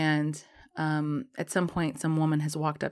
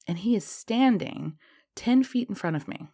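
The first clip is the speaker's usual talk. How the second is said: whispered; 5 semitones higher than usual. Real, not acted. Shocked reveal he is there.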